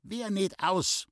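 a hammed-up startled cry; mock horror. A narrator's reading. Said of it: "fuhr Traudl auf ... in komischem Entsetzen".

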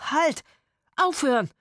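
high, loud cry to stop; alarmed shout. A narrator's reading. People in the barn stopping the shooting, alarmed shout. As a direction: call out urgently from inside. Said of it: "scholl es aus der Scheune".

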